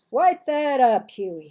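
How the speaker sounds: high, loud command; father's loud order. Acted. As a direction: bark it at the boy.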